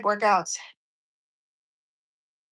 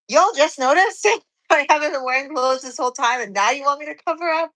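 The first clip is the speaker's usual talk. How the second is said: incredulous; 4 semitones higher than usual. Retold or imitated. Retold protest at restaurant.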